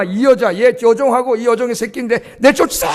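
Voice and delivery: a preacher acting out Sarah's furious order; hammed-up angry wife yelling at her husband; angry shout. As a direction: bark the order at the husband in mock rage. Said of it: "쫓아내라고 소리를 쳤어요".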